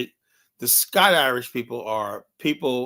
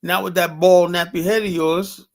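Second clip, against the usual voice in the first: retorting loudly; 6 semitones higher, 6 dB louder than usual. Retold or imitated. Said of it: "I said".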